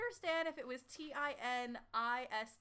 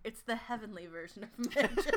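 laughing; 3 dB louder, faster than usual. Real, not acted. Laughing at a funny place name.

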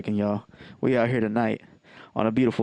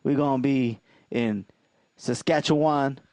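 heroic rallying shout; 4 semitones higher than usual. Acted. Hype roll call of cities.

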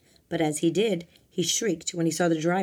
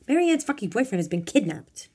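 raised, higher, urgent voice; indignant shouting; 5 semitones higher, 4 dB louder than usual. A narrator's reading. Bob shouting at Domingo about the kidnapping, indignant. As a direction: insist on it with a mild shout. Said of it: "Italian Bob shouted at him".

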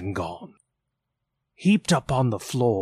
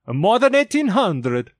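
echoing ethereal energy being; 9 semitones higher, 5 dB louder than usual. A narrator's reading. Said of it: "said the ghost".

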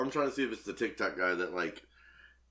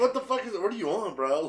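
higher, incredulous mock reaction; imitating Sean; 11 semitones higher, 5 dB louder than usual. Friend imagines the artist Sean reacting to the customer, mock disbelief. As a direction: play a baffled tattoo artist, pitched up. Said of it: "Did you imagine Sean's reaction?".

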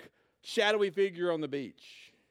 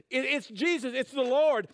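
mock excited shout, higher and louder; retold excited scream; 6 semitones higher, 6 dB louder than usual. Peter recognising Jesus from the boat, excited retold shout. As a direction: call it out like you just recognised him. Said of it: "Peter screams out".

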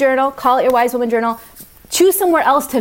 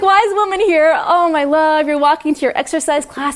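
a lightly voiced wise woman, higher; higher cheerful wise woman; 6 semitones higher than usual. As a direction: leave yourself a cheerful, loving voice memo.

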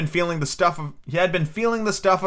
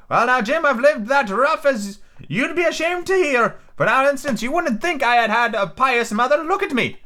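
Ben Gunn voice; 9 semitones higher than usual. A narrator's reading. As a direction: confide like a lonely hermit.

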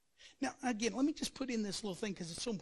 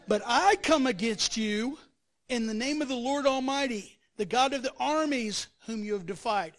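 preacher thundering David's challenge to Goliath; bold proclamation; 7 dB louder than usual. Acted. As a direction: proclaim it like a battle cry. Preacher voicing David's bold answer.

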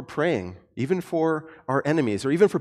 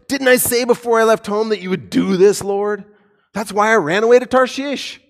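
raised, whiny protest to God; Jonah complaining; 2 semitones higher, 3 dB louder than usual. Retold or imitated. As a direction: complain bitterly to the Lord.

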